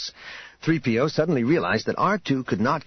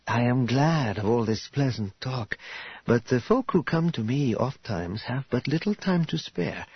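lightly voiced courteous, businesslike hostess; measured, formal politeness, gently getting to the point. Voices Karya in dialogue.

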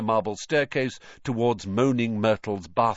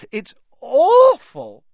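ghost voice; 11 dB louder, slower than usual. A narrator's reading. Moaning Myrtle's gleeful ghost voice.

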